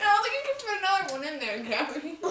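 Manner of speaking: laughing. Real, not acted. Laughing at friend stuffing marshmallows.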